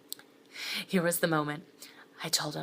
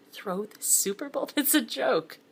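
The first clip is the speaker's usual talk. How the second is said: laughing disbelief; 7 semitones higher than usual. Acted.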